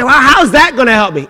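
loud, high mock doubter; skeptical listener. Pastor voicing a doubter in the pews, hammed up. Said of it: "you say".

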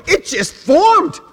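high, slow playing-dumb voice; mock innocent excuse. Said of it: "they go".

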